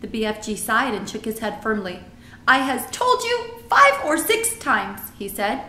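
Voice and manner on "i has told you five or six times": exasperated giant, higher and louder; BFG. A narrator's reading. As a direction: lay down the law as a friendly giant.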